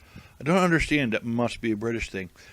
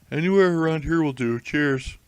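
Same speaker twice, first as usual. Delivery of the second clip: mock British passenger; 5 semitones higher, 7 dB louder than usual. Acting taxi passenger.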